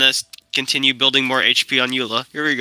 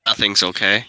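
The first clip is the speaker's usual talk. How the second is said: low-pitched, downbeat answer; oddly downbeat; 5 semitones lower than usual. Real, not acted. Friend answers being asked if they are okay, oddly downbeat. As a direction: answer low, with a lift at the end. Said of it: "Why do you say it like that".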